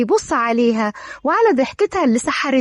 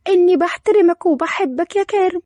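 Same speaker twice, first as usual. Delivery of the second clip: bashful, higher-pitched confession; a touch of coyness, pitched up; shy; 4 semitones higher than usual. Acted. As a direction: confess love with mild embarrassment. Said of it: "لورا بكسوف".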